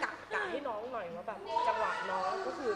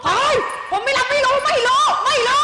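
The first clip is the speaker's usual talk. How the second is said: much higher, much louder shouted denial; furious yell; 14 dB louder than usual. Acted. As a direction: yell the denial at the top of your voice. Rehearsed quarrel, yelling denial.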